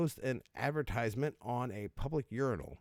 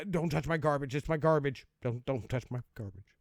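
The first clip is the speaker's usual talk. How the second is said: higher, mock protest from a possessive owner; mock protective; 4 semitones higher than usual. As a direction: play at guarding your precious things. Voices a possessive garbage owner.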